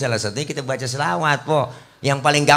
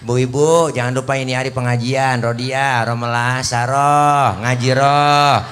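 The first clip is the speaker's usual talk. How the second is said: calling out to the neighbour women; loud mock call across the lane; calling friends to the Quran study; 4 dB louder than usual.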